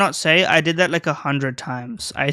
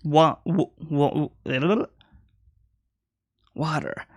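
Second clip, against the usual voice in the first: American accent attempt; much slower than usual. Shown as a demonstration. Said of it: "How do you say water in an American accent?".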